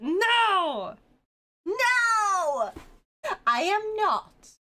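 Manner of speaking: high, loud stubborn no; character refusing outright; loud protest. Acted. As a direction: dig in and shout it back. Acted refusal, calling out.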